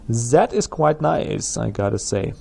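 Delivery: put-on comic German accent pleased with the game. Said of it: "I gotta stop with that German accent".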